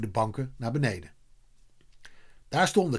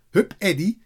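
raised, louder cheer; cheering shout; 5 semitones higher, 5 dB louder than usual. A narrator's reading. Kees supports Eddy from the goal, cheering. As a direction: urge him on from the goal. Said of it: "hoorde hij bij de goal schreeuwen".

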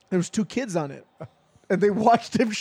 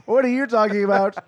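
imitating an insulted dad, pitched up and loud; mock outrage; 3 semitones higher, 4 dB louder than usual. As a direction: play the offended father protesting his ancestry. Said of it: "He was so mad".

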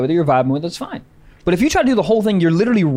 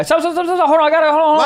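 mock urgency; 9 semitones higher, much faster than usual. Acting eager to take over.

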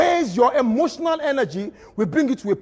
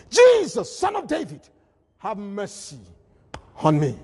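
Bartimaeus crying out. Acted. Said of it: "he began to cry".

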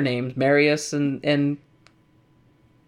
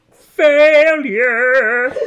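shouted; 10 semitones higher, 9 dB louder than usual. Acted. Mocking own failed joke.

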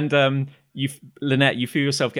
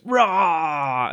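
drawn-out, raised war cry; battle roar; 4 semitones higher, 4 dB louder than usual. Acted. Atalia echoes the rally, drawn-out battle roar. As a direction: join in with a long roar. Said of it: "she goes".

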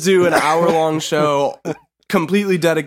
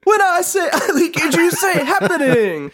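excited; 12 semitones higher than usual. Pretend. Mock chant to co-host, laughing.

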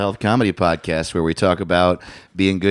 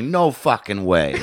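Boston cop voice. Retold or imitated. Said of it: "this Irish cop".

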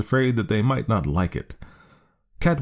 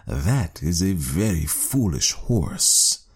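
slow, sneering cat voice; slow scoffing cat; scornful cat; much slower than usual. A narrator's reading. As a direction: drawl it out like a sly cat. Cat character voice.

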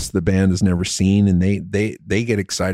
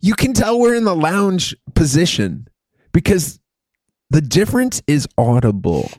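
sultry lounge voice; 6 semitones higher than usual. Pretend. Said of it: "Just listen to our sultry".

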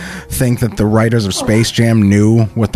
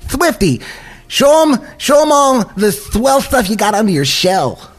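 excited cartoon rabbit; 8 semitones higher than usual. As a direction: yell it up high like Roger. Roger urging the turtle.

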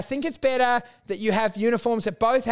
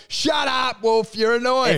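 raised, higher telling-off; mock angry shout; 3 semitones higher, slower than usual. Retold listeners fed up with his joke, shouting him down.

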